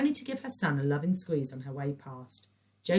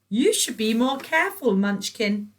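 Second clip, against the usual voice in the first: high, loud, sing-song scolding; sugary high trill; 7 semitones higher, 9 dB louder than usual. A narrator's reading. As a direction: trill it like a fussy busybody. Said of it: "trilled Patricia".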